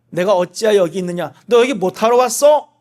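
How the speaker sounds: God reproaching Elijah in the cave; reproachful question. Pretend. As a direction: call him out for being here. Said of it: "그런 뜻일 수도 있고".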